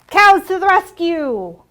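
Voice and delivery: loud, slow, ringing call of the title; refrain called out. Acted. Librarian calling the refrain to the children, loud and slow. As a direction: belt it out for the kids.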